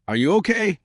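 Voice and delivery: lightly acted concern, pitch lifted; mildly worried. A narrator's reading. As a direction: check on someone with a touch of worry. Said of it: "he asked, worry in his eyes".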